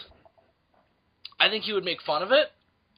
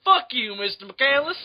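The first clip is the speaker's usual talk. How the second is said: mock-offended Southerner; 5 semitones higher than usual. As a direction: curse the patient in a hammy Southern accent. Offended doctor in the southern accent.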